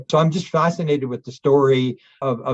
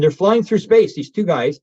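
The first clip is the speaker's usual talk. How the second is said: louder, higher, stressing space; emphatic repeat; 5 semitones higher, 5 dB louder, slower than usual. Real, not acted. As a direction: lean into the wonder of it.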